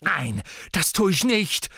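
high, loud refusal; beside herself, screaming. A narrator's reading. Sister refuses to shut up, screaming. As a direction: scream it, out of control. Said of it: "schrie Ginny außer sich".

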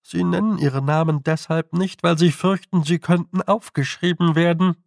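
a hint of a knowing toad voice; explaining toad. A narrator's reading. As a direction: explain it confidentially to the girl.

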